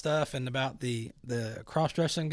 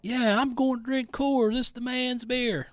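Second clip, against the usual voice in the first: higher, louder mock tough-guy voice; macho mock voice; 8 semitones higher, 5 dB louder than usual. Mocking a boycotter bragging about manly beer. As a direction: puff up like a proud beer bro. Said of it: "And you're like".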